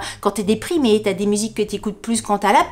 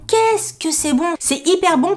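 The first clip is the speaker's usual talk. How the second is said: gushing, pitched-up exclamation; emphatic delight; 8 semitones higher than usual. Retold or imitated. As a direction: stretch out each word with relish. Repeats the rave, more emphatic.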